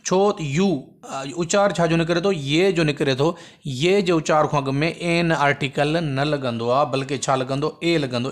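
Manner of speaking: usual speaking voice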